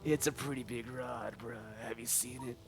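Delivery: put-on laid-back surfer with old man edge; slow, easygoing surfer drawl; old surfer dude. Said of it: "a mix of an old guy and a surfer dude".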